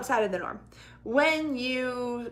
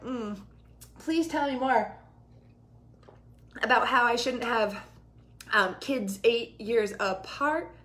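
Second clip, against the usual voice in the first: mock sarcastic. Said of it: "Now I'm like".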